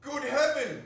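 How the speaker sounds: high, loud, with a laugh; amazed cry. Acted. Scrooge seeing his boyhood country, amazed laughing cry. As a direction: gasp it out in wonder.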